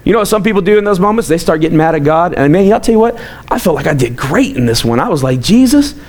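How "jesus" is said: high, swooping delight with a laugh; re-enacted joyful praise. Father re-enacts thanking Jesus for his baby, delighted praise. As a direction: retell rejoicing, pitch leaping up.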